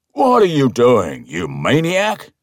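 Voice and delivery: put-on loud, high angry old man. A narrator's reading. Old man yells at the narrator, loud and high. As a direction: bark it at him, outraged. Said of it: "the old man from the toilet raises his voice".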